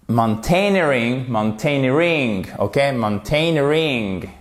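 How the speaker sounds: mountaineering with stress on EER, every syllable heard; careful teacher repetition; clear stress drill. Shown as a demonstration. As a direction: pronounce all syllables of mountaineering. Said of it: "on entend tous les sons".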